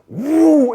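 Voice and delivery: quick vocal sound effect of a car; imitated car whoosh. Imitates car coming through lot.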